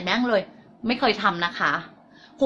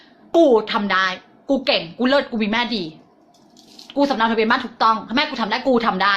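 bold affirmation. Shown as a demonstration. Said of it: "แล้วบอกไปเลยว่า".

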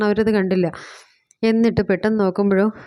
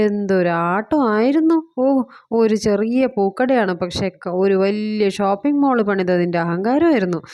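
mocking taunt; slower than usual. Mother-in-law taunting the daughter-in-law.

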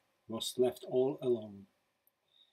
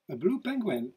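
"blue" lifted high with wonder, falling after; stress on blue; 7 semitones higher, 4 dB louder than usual. A narrator's reading. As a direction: marvel at the word "blue", high then falling. Repeated with wonder.

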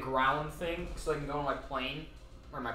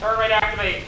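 hyped; 5 semitones higher, 9 dB louder than usual. Real, not acted. Hyped announcing a game move.

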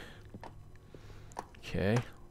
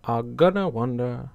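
failed character voice; 2 semitones higher, 5 dB louder than usual. Retold or imitated. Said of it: "I can't do the voice".

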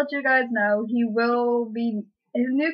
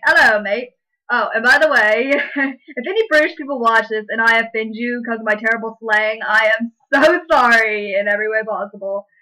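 louder, hammed-up British bloke greeting; mock British accent; 4 dB louder than usual. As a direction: play a cheery fake Brit online. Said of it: "I was a British guy".

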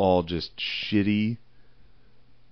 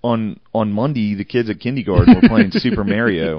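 hammed-up Philly accent; 5 dB louder than usual. Co-host mocks Philly talk with a kindergarten story, hammed-up Philly accent. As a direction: ham up the Philly vowels.

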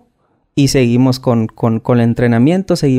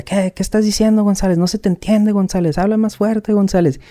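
mocking sergeant; 7 semitones higher than usual. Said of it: "se burlaba de mí y me decía".

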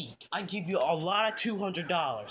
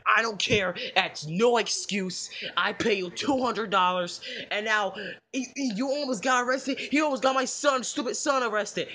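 angry scolding. Acted. Boss berates babysitter over money.

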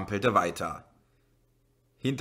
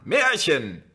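loud, higher mocking cry; scornful shout; 6 semitones higher, 7 dB louder than usual. A narrator's reading. Man in the crowd shouting down the police. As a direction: throw it back with contempt. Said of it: "rief ein Mann".

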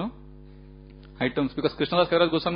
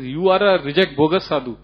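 mock scolding; 5 dB louder than usual. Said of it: "gets angry transcendently and he says".

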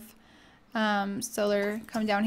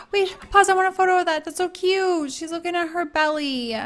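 gushing coo; 7 semitones higher than usual. Retold or imitated. Voicing a Sim cooing.

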